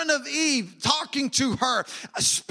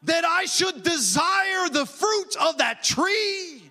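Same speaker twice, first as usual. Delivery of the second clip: tempted Eve; 4 semitones higher than usual. Retold or imitated. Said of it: "He is trying to get her to say".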